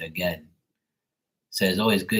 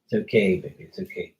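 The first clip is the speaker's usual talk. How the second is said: soothing pet; 2 semitones lower, faster than usual. Real, not acted. Soothing scared dog.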